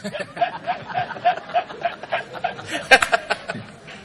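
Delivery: high unvoiced laughing fit; long laugh. Real, not acted. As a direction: break into helpless laughter. Long laugh after the story.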